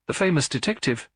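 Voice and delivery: a faint sneer at the famous detective; teasing the famous detective, a touch of mockery; hint of mockery. A narrator's reading. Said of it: "with a hint of mockery".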